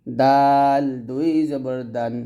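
"দাল" held long, then "দুই জবর দান"; spelling-out recitation. Shown as a demonstration. Teacher models correct reading for pupils, measured spelling-out. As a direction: chant the letter name "দাল" long, then its vowel. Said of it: "পড়তে হবে".

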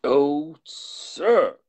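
loud, high-pitched exclamation; impassioned outcry of a servant; crying out. A narrator's reading. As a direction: cry out in protest, high and loud. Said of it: "cried Poole".

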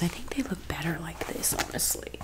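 breathy ASMR whisper. Acted. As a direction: whisper close to the mic.

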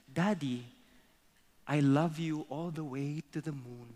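put-on understated sleepy child rabbit; last words before dozing off, lightly voiced; sleepy little rabbit. Little rabbit nearly asleep on the grass, sleepily loving. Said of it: "about to fall asleep".

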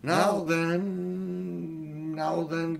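steady the crowd, cheerful and firm; hearty cabbie calming everyone. A narrator's reading. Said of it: "in a good, firm, hearty voice".

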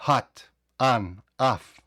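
Hot, on, off with an open vowel between o and a. Shown as a demonstration. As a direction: say hot like a blend of o and a. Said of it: "це і о, і а докупи".

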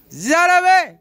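high, loud burst of delight; thrilled cry of wow man; excited shout. Real, not acted. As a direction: cheer the bird on. Thrilled by a bird's flight.

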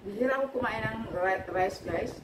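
chewing while talking; eating between words; mouth full. Real, not acted. Seen 1: takes bites before and after; mouth works on food while talking.

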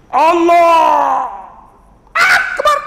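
high, loud, stretched-out mock takbir; mock wobbly takbir. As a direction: lampoon an over-sung Allahu Akbar. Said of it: "ikut imam tu yang jadi".

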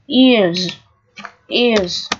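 "ears" ending in a voiced z; "ears" said alone with a z ending; pronunciation demo. Shown as a demonstration. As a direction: model "ears" twice for learners, S as z. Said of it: "S đây cũng được phát âm là âm Z".

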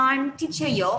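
I'm teacher Yo, stress on I'm, falling end; model introduction. Shown as a demonstration. Teacher modelling how to introduce yourself. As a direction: say it clearly for kids. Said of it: "เช่น".

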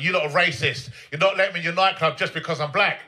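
mildly annoyed retold protest. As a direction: imitate a put-out clubber protesting. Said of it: "he got annoyed".

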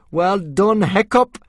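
high, loud cry of relief; excited praise. Acted. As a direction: cheer your friend on at the top of your voice. Boys cheering after dragons die.

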